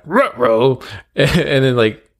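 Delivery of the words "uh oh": a light Scooby-Doo impression. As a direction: growl out "Ruh-roh" like the cartoon dog. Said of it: "And I'm like".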